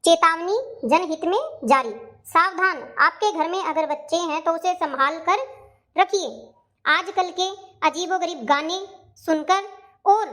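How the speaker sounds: measured announcer read in short chunks; public warning announcement. Acted. Amma reading out a warning about children, measured and formal. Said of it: "ये क्या चेतावनी दे रखी है".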